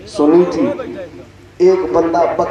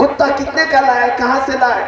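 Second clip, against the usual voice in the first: sly flattery; 6 semitones higher, faster than usual. Acted. Fourth swindler flatters the owner.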